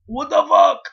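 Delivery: high, loud stunned cry; shocked outburst. Retold or imitated. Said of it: "looking at him like".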